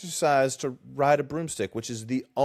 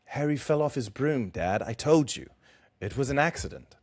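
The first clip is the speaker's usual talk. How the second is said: modest embarrassed son; 4 dB quieter than usual. Acted. Reads Cedric's reply in character.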